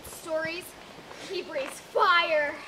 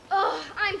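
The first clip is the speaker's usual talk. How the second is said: freaking out; 2 semitones higher, 4 dB louder than usual. Acted. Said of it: "I'm freaking out".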